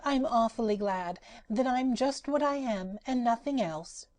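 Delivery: high, gleeful rag doll voice; Patchwork Girl. Acted. Rag doll boasting to the cat, high and delighted.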